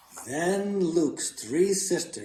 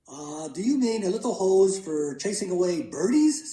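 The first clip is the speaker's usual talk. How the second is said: put-on eager boy; 5 semitones higher, 4 dB louder than usual. Boy eagerly questions his father.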